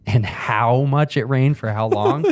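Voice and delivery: amused, breaking into chuckles; real laugh running under the words; laughing recap. Real, not acted. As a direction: talk through real laughter. Laughing while recapping the night.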